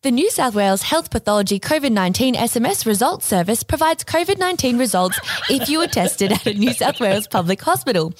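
robot voice. Acted. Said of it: "can I do a robot voice?".

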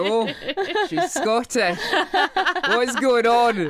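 high, loud baffled outburst; mock astonishment. Speaker mimics people hearing she's Scottish, mock astonishment. Mimics onlookers' shock at her accent.

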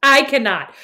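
loud, insistent mock-American "cannot"; bad American accent. Sister struggling through her failing American accent, loud and laughing. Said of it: "You can't even speak in this American accent".

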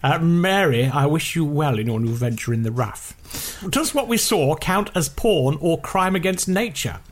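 lightly posh email reading. Pretend. Host reads listener email in a slightly posh voice. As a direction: read it out with a hint of posh. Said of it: "Shall I read it in a posh way".

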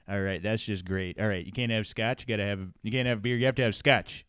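mock Alan Alda barkeep; gruff bartender. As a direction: play a hostile bar owner spitting contempt. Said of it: "it's Horace and Pete's".

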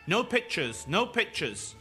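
loud, high, urgent shout; gunman's shouted command. A narrator's reading. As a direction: shout it as an order. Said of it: "started shouting".

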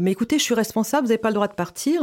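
fast, pressing words of a worried nurse; urgent rush. Retold or imitated. Nurse chasing a patient out, fast and urgent. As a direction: hurry it out like someone running after you.

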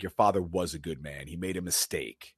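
a hint of a furious butler scolding; mock angry retort, pitch climbing; angry Alfred. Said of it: "Alfred gets pissed".

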